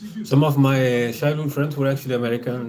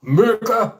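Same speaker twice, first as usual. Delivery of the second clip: higher, loud cheer of America!, stretched out; patriotic cheer, higher; 9 semitones higher, 5 dB louder than usual. Pretend. Repeating the cheer for his audience, higher and louder. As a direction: shout it like a rally crowd.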